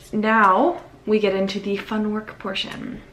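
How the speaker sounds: understated sarcastic announcement; light sarcasm. Real, not acted. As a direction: announce it with a touch of mock enthusiasm. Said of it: "A little bit of sarcasm there".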